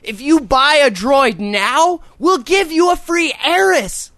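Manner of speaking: high, slow chirpy ad voice; a hammed-up Verizon pitch; mock cheery salesman. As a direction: sell it brightly like a phone ad. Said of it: "you're like".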